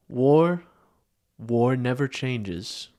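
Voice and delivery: slow, grave narrator voice; lightly voiced wasteland narrator, drawn out; Fallout narrator. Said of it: "a Fallout style intro of SpongeBob".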